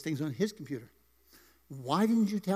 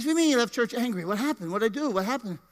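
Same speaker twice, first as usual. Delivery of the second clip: mock alarm; 5 semitones higher, 3 dB louder than usual. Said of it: "I said".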